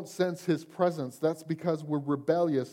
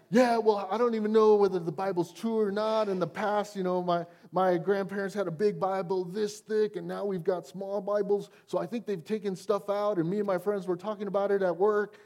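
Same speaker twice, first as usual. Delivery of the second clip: skeptical congregant; 3 semitones higher than usual. Retold or imitated. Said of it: "he's like".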